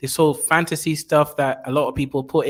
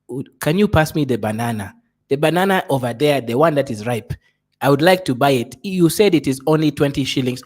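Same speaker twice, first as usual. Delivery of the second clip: fake African accent. Shown as a demonstration. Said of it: "I also put on a fake African accent".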